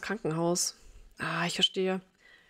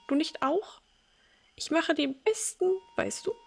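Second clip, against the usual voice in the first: put-on higher, doting old-mother voice; elderly mother voice; 3 semitones higher than usual. Old mother greeting her grown son as little Timmy, doting. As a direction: greet him like a fond, confused old mum.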